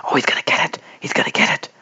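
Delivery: breathless loud whisper; rising excitement, half whispered; excited whisper-shout. Real, not acted. Batsman about to reach hundred.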